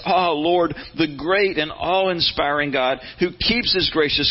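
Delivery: measured, solemn reading of the prayer; scripture reading. Acted. Pastor reading Daniel's confession to the congregation, solemn reading.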